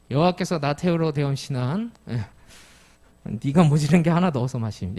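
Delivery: put-on the same verse recited in old Jeju dialect. Shown as a demonstration. Pastor repeating the psalm for the congregation in Jeju dialect. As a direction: read it again the island way. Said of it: "저 말씀이 바로 이 말씀이거든요".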